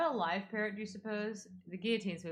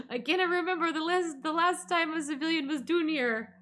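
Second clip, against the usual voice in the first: put-on improvised Russian accent; 7 semitones higher than usual. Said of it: "Make him Italian, Russian".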